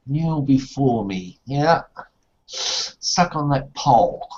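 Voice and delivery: ancient rasping undead king. Acted. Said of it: "say that for us".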